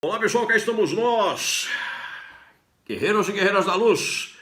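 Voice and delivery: high, upbeat hello to viewers; excited greeting. Real, not acted. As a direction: greet them with energy. Repeated greeting, two takes.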